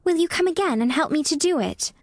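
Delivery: put-on high, girlish plea; begging. A narrator's reading. Mary asks Dickon to come again, high begging voice. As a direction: plead like a hopeful little girl. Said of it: "Mary begged".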